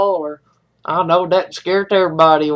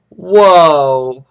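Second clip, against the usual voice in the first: burn reaction; 5 semitones lower, 6 dB louder than usual. Real, not acted.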